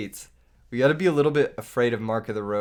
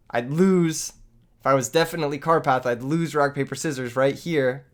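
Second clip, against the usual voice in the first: put-on voice; 3 semitones higher, 4 dB louder than usual. Shown as a demonstration. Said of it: "Okay, hold up".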